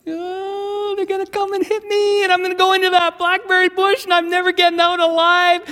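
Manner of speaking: put-on high wailing kid voice, quickening; hammed-up screaming panic. Boy riding home fears blackberry bush, panicked wail. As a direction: wail as if doomed. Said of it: "I start screaming all the way home".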